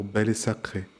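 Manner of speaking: "belle et" run together as bè-lé; linked words. Shown as a demonstration. Teacher shows pupils the liaisons, "belle et" linked as bè-lé. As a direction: carry the L of "belle" onto "et". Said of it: "on fera attention aux liaisons".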